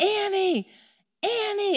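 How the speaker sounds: put-on scream at top of lungs, very high. Speaker retells searching for a lost child, acting out screaming at the top of lungs. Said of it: "Now I begin to scream at the top of my lungs".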